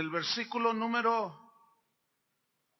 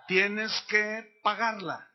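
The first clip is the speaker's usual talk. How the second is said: slow, louder, each word weighted; fuerte y enfático; 4 dB louder, much slower than usual. Shown as a demonstration. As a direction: lead a congregation's answer, slowly and firmly. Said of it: "Díganlo fuerte". (fuerte, despacio y remarcado)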